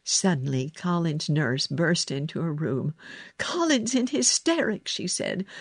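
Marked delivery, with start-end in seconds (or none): 3.4-4.9 high, urgent report; alarmed. A narrator's reading. Nurse bursts into girl's room for help, alarmed. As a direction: blurt out the emergency.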